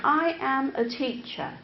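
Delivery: every word separate in "I am a teacher"; reciting, not speaking. Shown as a demonstration. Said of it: "That's not speaking".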